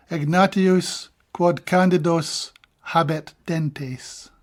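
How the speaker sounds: Latin line read out slowly and deliberately; slow formal Latin verse; slow Latin recital. Acted.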